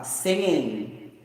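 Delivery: singing said as sing-in, final g dropped. Shown as a demonstration. To the viewers, showing how natives drop the g. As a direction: say singing with no hard g at the end. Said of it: "They don't mention the letter G at the end".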